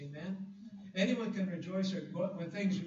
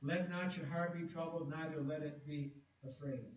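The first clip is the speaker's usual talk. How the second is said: scripture reading. Acted.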